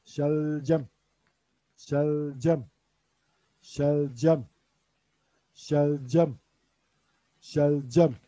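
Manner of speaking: Şelcem said evenly and clearly; Urdu pronunciation. Shown as a demonstration. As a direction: repeat Şelcem for the class. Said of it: "şöyle diyoruz". (Şelcem kelimesini tane tane tekrarla)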